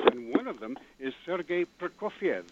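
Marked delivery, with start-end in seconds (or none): 1.2-2.4 Prokofiev said as three syllables, stress on the second; right pronunciation. Shown as a demonstration. Caller correcting a name on the radio, three-syllable Prokofiev. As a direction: Prokofiev with three syllables, pro-KOF-yev. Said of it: "Three syllables".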